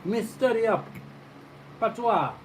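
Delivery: high-pitched put-on Jamaican patois; mock patois. White guy from Connecticut answers the friends, imitated patois. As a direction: imitate an outsider's eager patois. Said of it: "coming at us with a patois".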